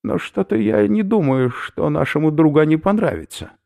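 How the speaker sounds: usual speaking voice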